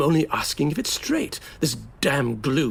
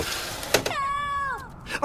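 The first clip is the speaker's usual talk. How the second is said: 1 cry for help; 5 dB quieter than usual. Acted.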